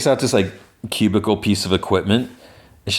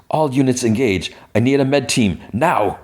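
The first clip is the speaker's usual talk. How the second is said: higher-pitched, lightly acted command; urgent radio order; 5 semitones higher than usual. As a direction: call for help over the radio, mildly urgent. And she radios.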